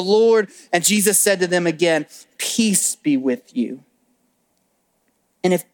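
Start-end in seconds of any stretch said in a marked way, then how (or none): 2.4-3.8 slow, gentle, a bit lower; slow tender greeting. Acted. Jesus repeating his greeting, slow and reassuring. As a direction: linger on peace, reassuring. Jesus speaks peace again.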